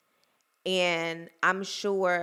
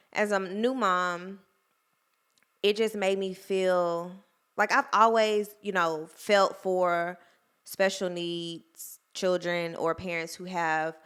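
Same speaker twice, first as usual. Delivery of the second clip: holding back tears. Real, not acted. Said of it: "I'm trying not to cry".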